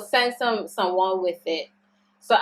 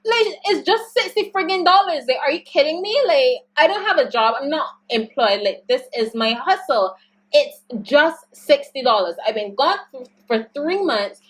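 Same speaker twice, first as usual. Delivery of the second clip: angry venting; 2 semitones higher than usual. Retold or imitated. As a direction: rant it to mom, worked up and offended. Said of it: "don't be so angry".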